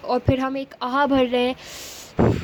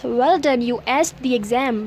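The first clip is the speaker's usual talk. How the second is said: praising; much slower than usual. Shown as a demonstration. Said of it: "तो आपको कैसे बोलेंगे".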